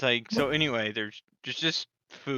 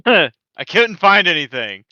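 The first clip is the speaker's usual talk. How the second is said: talking with mouth full; words through a mouthful of food; messy loud eating; 11 dB louder than usual. Real, not acted. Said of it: "does it sound like you're eating food?".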